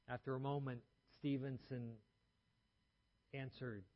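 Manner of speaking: normal talking voice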